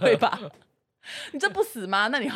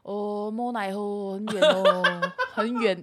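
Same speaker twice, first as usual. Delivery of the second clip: imitating Lin Ye; much slower than usual. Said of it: "那个林野说".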